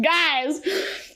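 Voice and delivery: laughing pleading guys, trailing to a breathy laugh. Retold or imitated. Fan pleading with the characters, laughing. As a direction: beg the guys between laughs. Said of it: "And I was like".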